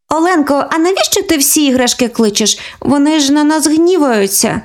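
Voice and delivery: put-on high, childlike sister; worried little sister asking; lightly voiced young girl; girl's voice. Sisters talk together.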